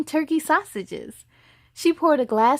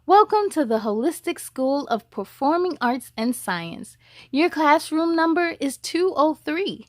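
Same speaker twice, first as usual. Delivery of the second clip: lightly voiced school announcer; 3 semitones higher than usual. Greeter welcoming the new students, lightly formal announcer. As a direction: announce the rules to the children, polite and crisp.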